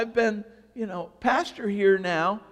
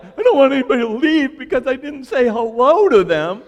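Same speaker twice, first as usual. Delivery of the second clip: anxious inner voice; 4 semitones higher, 9 dB louder than usual. Retold or imitated. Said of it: "Going like".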